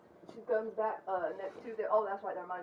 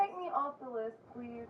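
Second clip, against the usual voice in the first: higher, louder irritated demand; annoyed; 5 semitones higher, 4 dB louder, slower than usual. Real, not acted. To the spam caller on the phone, a fed-up higher demand.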